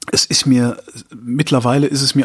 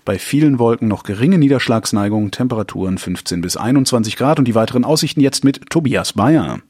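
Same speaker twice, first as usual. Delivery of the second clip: weather forecast read. Acted.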